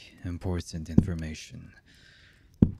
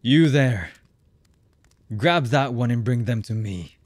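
raised, higher voice of command; commanding call; 4 semitones higher, 5 dB louder than usual. Acted. Boss to subordinate across the room, loud command. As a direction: call out a sharp order to a henchman.

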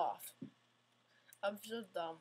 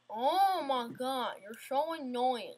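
exasperated drawl; 5 dB louder, slower than usual. Real, not acted. Fails the jump again.

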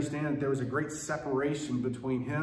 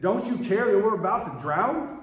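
loud, higher panicked cry; panicked disciples; 8 semitones higher, 8 dB louder than usual. Retold or imitated. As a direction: shout it like men about to drown. Disciples wake Jesus in storm.

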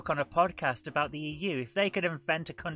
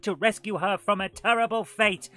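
a mildly dramatic trailer read, swelling louder on fate; 3 dB louder than usual. Acted. Host reading the game's story intro in a mild trailer voice. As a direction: read the box blurb like a movie trailer. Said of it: "while trying to do it, a dramatic voice".

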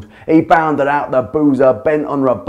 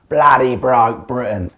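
barked. Acted. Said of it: "he barked".

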